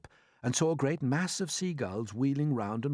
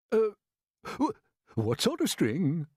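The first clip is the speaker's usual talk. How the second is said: slow, pointed, demanding; sharp question; 8 semitones higher, 5 dB louder, slower than usual. A narrator's reading. Grasshopper pressing James on the string, sharply. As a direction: cut in sharply. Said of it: "asked the old green grasshopper sharply".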